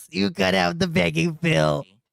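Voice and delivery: raspy, rough, scratchy, croaky voice. Imitating someone's line about cutting out the begging: Steve Cambion raspy voice. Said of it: "the Steve Cambion raspy voice".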